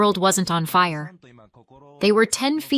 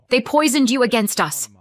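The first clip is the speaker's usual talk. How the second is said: higher, bitter blame; venomous accusation; 4 semitones higher than usual. Acted. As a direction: lash out with blame. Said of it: "she spit".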